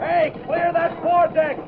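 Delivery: calling out. Acted. Foreman calling to deck.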